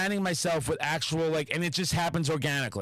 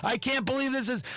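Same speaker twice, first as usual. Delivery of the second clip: manic high; 8 semitones higher than usual. Retold or imitated. Speaker reliving a manic phase, soaring shout. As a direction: play the manic high of a bender. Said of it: "'cause I'm so manic".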